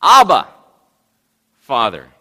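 sudden acted cry of appeal; crying out in distress. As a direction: call out to a father in anguish, acted. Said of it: "he cried".

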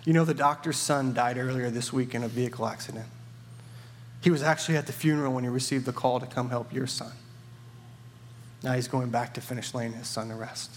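a touch of tearful sorrow, understated. Acted. Nurse telling the father about the doctor's loss, gently sad. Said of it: "she said with tears in her eyes".

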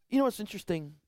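confiding whisper, almost unvoiced. Real, not acted. Preacher leaning in to his congregation, hushed whisper. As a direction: lean in and whisper it.

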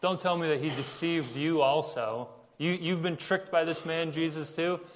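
mildly mocking disbelief; condescending. Religious leaders scolding the empty-handed guards, condescending. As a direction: talk down to them as if they were gullible. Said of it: "they're kinda condescending".

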